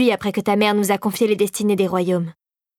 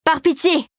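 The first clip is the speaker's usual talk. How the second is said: begging; 6 semitones higher than usual. A narrator's reading. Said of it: "l'implora Mère Gingembre".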